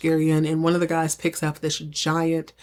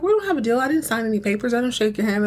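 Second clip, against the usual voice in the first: retold protest, pitched high at first; indignant protest; 5 semitones higher, faster than usual. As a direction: argue back as a flustered Gary, higher. Gary protests in acted argument.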